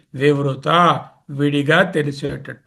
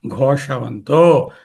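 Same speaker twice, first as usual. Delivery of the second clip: said forcefully; much slower than usual. Shown as a demonstration. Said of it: "గట్టిగా".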